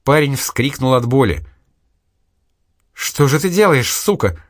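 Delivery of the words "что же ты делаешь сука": angry outburst. A narrator's reading. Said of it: "взвилась девушка".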